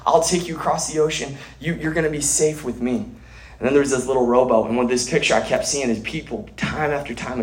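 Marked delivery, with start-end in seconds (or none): 0.1-3.0 higher, gently inviting captain; lightly voiced loving captain, inviting. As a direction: welcome them aboard like a kind captain. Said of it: "a loving captain".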